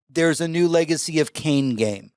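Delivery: slow, deliberate restatement. Retold or imitated. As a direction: spell out the news word by word. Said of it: "Could you slow that down and say".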